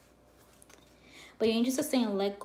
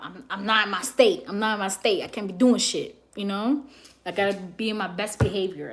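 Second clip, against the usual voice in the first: louder retelling; 6 dB louder than usual. Retold or imitated. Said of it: "I said".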